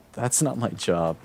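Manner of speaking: a slow, mildly disgusted retort; disgusted brush-off. Retold or imitated. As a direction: turn her down with mild disgust. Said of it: "looked at her with the most disgusted face".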